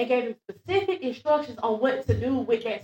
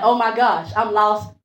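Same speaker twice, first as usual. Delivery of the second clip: laughing confession; 3 semitones higher, 6 dB louder than usual. Retold or imitated. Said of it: "And I'm like".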